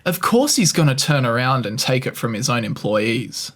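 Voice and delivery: deadpan mock defence of the boss; feigned reasonableness, tongue in cheek; sarcastic. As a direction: argue the indefensible as if it were obvious. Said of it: "there was definitely sarcasm in that".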